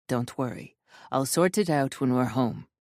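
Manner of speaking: calm her fears gently; reassuring. Acted. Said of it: "He gives me a reassuring smile".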